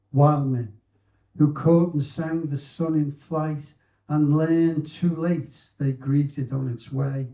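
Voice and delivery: steady, declaiming poem reading; poem recital. Acted. Speaker recites the poem he wants read at his funeral, declaiming.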